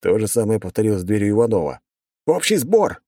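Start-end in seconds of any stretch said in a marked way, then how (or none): 2.2-3.0 shouted command. A narrator's reading. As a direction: bark the rally call. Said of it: "выкрикнул я".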